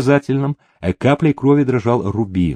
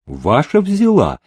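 creaky dealer's voice; 6 semitones higher than usual. A narrator's reading. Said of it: "скрипучий голос банкомёта".

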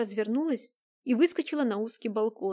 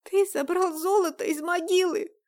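hoarse rasp; 7 semitones higher, 6 dB louder than usual. A narrator's reading. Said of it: "прохрипела Дайнека".

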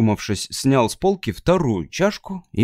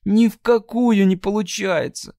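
moaning; 9 semitones higher than usual. Acted. Moaning in despair to Matt. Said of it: "простонала она".

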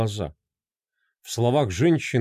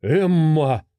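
a husband's louder, startled cry; shocked exclamation; 4 semitones higher, 4 dB louder than usual. Acted. A husband cries out at his wife's confession, shocked. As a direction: call her name in shock. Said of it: "воскликнул её муж".

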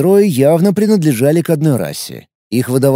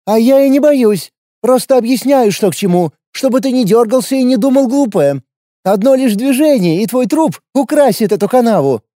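wry smirk; 9 semitones higher than usual. A narrator's reading. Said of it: "Криво усмехнулась девушка".

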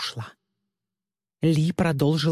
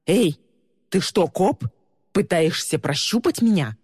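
sharp, raised suspicious challenge; suspicious alarm; 3 semitones higher than usual. Acted. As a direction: bark the accusation up high. Suspicious man confronting Lee.

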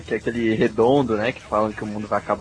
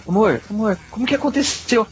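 high-pitched wife voice; 10 semitones higher than usual. Retold or imitated. Wife's worried question retold.

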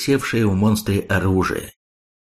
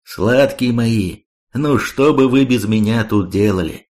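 patronizing. Acted. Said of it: "покровительственно заявить".

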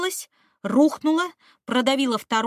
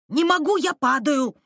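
hanging on for dear life; 6 semitones higher, 6 dB louder than usual. A narrator's reading. Student hanging from ledge.

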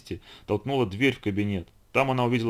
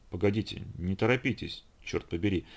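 soft, halting protest; hushed, worried curse; dismayed muttering; 2 semitones lower, 5 dB quieter than usual. Acted. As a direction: mutter a flustered objection. Uncle flustered, tries to slow things.

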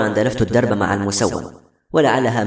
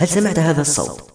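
higher-pitched, mildly astonished question; 6 semitones higher than usual. A narrator's reading. Girl asks her companion about the strange voice, astonished. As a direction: ask with a touch of amazement. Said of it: "قالت باندهاش".

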